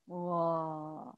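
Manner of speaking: slow, low drawn-out wow; mock amazed wow; long wow. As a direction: marvel at it for the kids. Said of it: "mock amazement".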